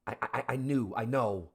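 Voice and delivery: loud, insistent daughter calling for Dad; urgent calling out. Acted. Daughter calls to her father through the door, urgent calling out.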